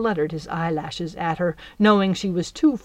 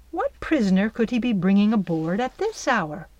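ordinary delivery, nothing marked

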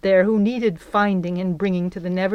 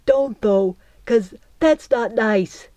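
plain reading voice

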